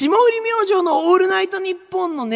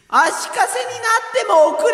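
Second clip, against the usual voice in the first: bossy condescending; 3 semitones higher than usual. Acted. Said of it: "なんで上から？".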